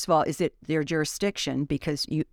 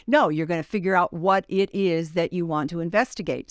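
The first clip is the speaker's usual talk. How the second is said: ordinary talk, nothing marked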